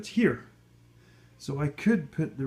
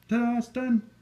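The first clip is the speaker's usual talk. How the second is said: mock ta-da; 10 semitones higher, 5 dB louder than usual. Mock reveal of car.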